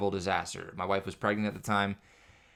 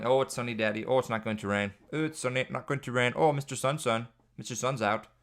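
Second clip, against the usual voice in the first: a hint of a happy toddler, a touch higher; imitating toddler son; 3 semitones higher than usual. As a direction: chirp it like a little kid. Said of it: "Every time there's sun".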